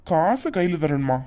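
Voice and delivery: slow mocking echo. Brother throws sister's words back, slow and scornful. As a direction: repeat her words back slowly, scornful.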